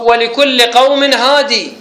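slow recitation, "هادي" with its final yaa sounded; Ibn Kathir's reading. Shown as a demonstration. Teacher shows students Ibn Kathir's reading, "هادي" ending in long ee. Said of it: "هيك قرأ ابن كثير".

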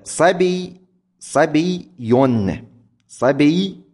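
scanning the metre. Shown as a demonstration. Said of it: "على وزن فعول".

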